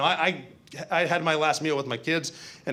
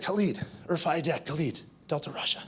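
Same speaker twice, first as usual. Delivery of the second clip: soft, hushed call into the dark; retold whisper; 7 dB quieter than usual. Teammate softly calling Khalid in the dark, hushed. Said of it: "He whispered".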